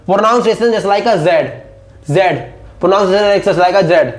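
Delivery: slow, every word spaced out; slow dictation. Shown as a demonstration. Teacher dictates the pronunciation rule to students.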